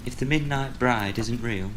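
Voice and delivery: put-on high child's voice, climbing to the end; little girl. A narrator's reading. Girl asking father whose hand it is, building alarm. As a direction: build pitch and volume to the scare. Girl's scary punchline in bedtime story.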